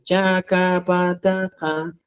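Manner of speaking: "chacapataja" slowish and clean, no breath after the stops; plain unaspirated stops. Shown as a demonstration. Teacher reminds the class of the simple form. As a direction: say "chacapataja" without any puff of air. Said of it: "el simple es".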